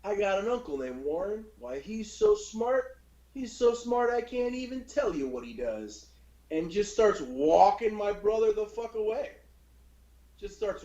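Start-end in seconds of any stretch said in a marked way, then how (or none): 0.0-6.1 put-on high, slow, sing-song stranger luring a kid; mock friendly creep voice; creepy stranger. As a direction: sweet-talk the boy, drawn out and high. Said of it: "and he goes".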